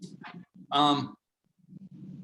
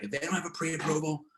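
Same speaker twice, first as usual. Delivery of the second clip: lightly put-on Jersey accent; imitated Jersey accent; 4 semitones higher than usual. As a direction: do a stubborn agent with a Jersey accent. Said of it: "I'm doing my, like, Jersey accent".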